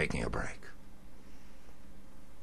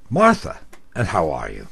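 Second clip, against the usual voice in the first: nice guy voice; 3 semitones lower, 5 dB louder than usual. Retold or imitated. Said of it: "using my nice guy voice".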